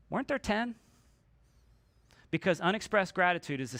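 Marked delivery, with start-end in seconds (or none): 0.1-0.7 soft Jesus question. Retold or imitated. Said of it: "And Jesus says".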